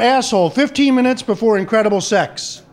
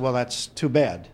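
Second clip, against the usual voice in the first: much lower, softer, slow pitying murmur; mock sympathy; 12 semitones lower, 6 dB quieter than usual. Golf buddies murmuring fake sympathy about the son. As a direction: drop it low and slow, faux-sorry. Friends react to gay son.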